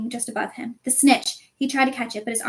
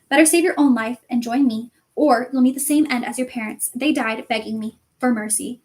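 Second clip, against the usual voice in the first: Voldemort threatening. Acted. Voldemort taunting Harry about his parents, mild menace.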